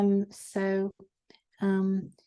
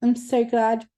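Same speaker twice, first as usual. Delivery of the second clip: tearful; 3 semitones higher, 4 dB louder than usual. Real, not acted. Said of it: "I'm about to cry".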